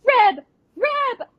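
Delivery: high, loud calling out; mock yelling. Host retelling a girl calling for Reb, high mock yell. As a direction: call out across the set. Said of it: "she goes".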